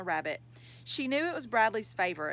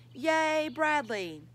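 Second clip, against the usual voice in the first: cheering; 6 semitones higher, much slower than usual. A narrator's reading. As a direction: read it as a crowd's hurrah. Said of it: "They all cheered".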